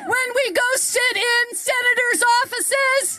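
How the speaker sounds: shouted call for the crowd; rally speech. Real, not acted. Leads crowd call and response.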